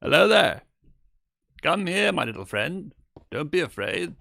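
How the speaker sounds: coaxing a shy pet; coaxing high voice. Acted. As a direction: lure the little friend.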